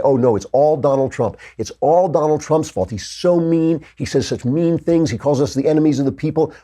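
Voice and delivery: a lightly voiced, whiny media mock. Host mocking the media's complaints about Trump, whiny. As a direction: sneer their complaint back at them. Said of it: "the media is going nuts because they say".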